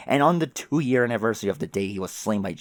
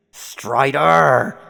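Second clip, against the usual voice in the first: a loud, higher furious shout of the name; furious yell; 4 semitones higher, 10 dB louder than usual. Acted. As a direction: scream his name in rage. Furious John yells at Dave Sprite.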